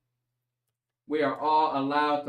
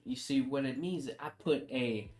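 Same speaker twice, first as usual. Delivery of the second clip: mock lecture. Mock-lecture defending his exaggerated impression.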